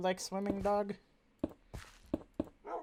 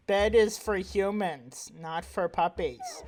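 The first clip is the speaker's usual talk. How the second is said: mock scolding; 3 semitones higher, 5 dB louder, slower than usual. Real, not acted. Scolding the dog in bed.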